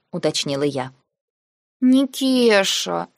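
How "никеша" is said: протяжно, выше, тянуть имя с лёгким нытьём; капризно позвать, будто вот-вот заплачет; плаксивые нотки. Acted. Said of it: "плаксивые нотки прорезались". (плаксиво тянет «Никеша» медленно и выше)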